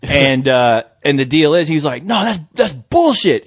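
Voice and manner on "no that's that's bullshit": imitating an angry cop, pitched up; retold angry cursing. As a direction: act out his cursing protest, drawn out. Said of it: "he started cursing".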